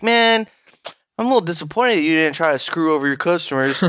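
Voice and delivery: sarcastic fake disappointment; mock disappointment. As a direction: play it as mock letdown. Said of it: "a disappointed or, like, surprised reaction".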